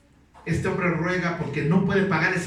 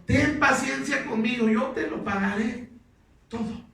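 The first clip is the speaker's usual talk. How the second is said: begging servant; 5 semitones higher than usual. Acted. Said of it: "Le rogaba diciendo".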